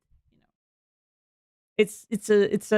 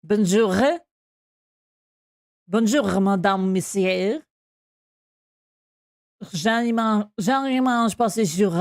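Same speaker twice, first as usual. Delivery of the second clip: French pronunciation shown off, slightly performed; French accent; 2 semitones lower than usual. Shown as a demonstration. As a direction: say it with French sounds. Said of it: "French, French, I can".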